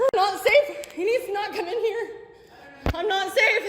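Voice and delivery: frightened shouting in the office; panicked shouting. Real, not acted. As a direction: cry out that you're unsafe. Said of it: "you don't need to be screaming like that".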